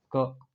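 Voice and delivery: क as a short "kuh"; letter sound क. Shown as a demonstration. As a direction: give क as C's bare hard sound, "kuh". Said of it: "सी क्या denote कर रहा है". (C की छोटी ध्वनि "क")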